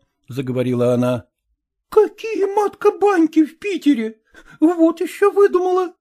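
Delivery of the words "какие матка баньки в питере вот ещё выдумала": high scornful mock shout. A narrator's reading. Marina scoffing at the bathhouse request, raised mocking shout. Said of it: "закричала на неё Марина".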